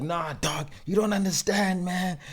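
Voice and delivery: friend protesting. Retold or imitated. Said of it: "Kanti is like".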